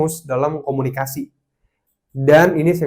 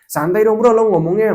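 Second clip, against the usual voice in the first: mock irritated pushback; 6 semitones higher, 4 dB louder than usual. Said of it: "ngomong ke orang yang kayak gini".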